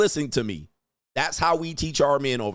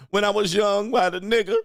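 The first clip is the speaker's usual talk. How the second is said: mocking the woman; 7 semitones higher than usual. Host parodying the woman's apology to viewers, higher mocking whine. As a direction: ham up her excuses in a lifted mocking voice.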